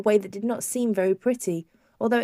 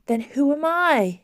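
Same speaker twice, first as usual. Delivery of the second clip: bewildered wondering; 6 semitones higher, 4 dB louder, slower than usual. A narrator's reading. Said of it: "she wondered".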